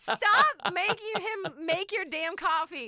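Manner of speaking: exasperated teasing order; mock scolding. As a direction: scold slowly, every word stretched.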